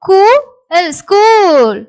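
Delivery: slow separate sounds, long drawn final word; sounding out. Shown as a demonstration. Teacher asking learners how they read it, sounding out. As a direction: pause after each sound, then blend. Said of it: "இதை எப்படி படிக்கிறீங்க?".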